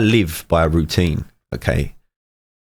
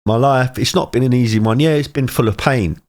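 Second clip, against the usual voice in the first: getting emotional; 5 semitones higher than usual. Real, not acted. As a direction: voice pitched higher, fighting back tears. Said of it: "You see me getting emotional".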